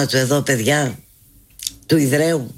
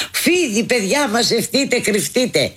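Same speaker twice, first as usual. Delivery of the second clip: mock panic; 5 semitones higher than usual. Mock panic over a snake.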